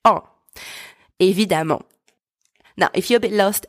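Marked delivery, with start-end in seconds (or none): 0.0-0.2 "en." as one nasal French vowel. Shown as a demonstration. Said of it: "that word are pronounced". 1.2-1.8 "Évidemment" ending in nasal "mon"; ENT as nasal vowel. Shown as a demonstration. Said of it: "E N T at the end of that word".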